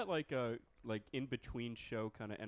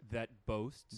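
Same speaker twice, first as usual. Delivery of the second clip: British accent model phrase; British elocution; 4 dB louder than usual. Shown as a demonstration. Host leading a mock lesson, British elocution. Okay, try this.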